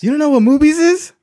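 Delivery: high-pitched, loud disbelief; can't believe you don't know; incredulous. Real, not acted. To his co-host, teasing: high, loud, incredulous.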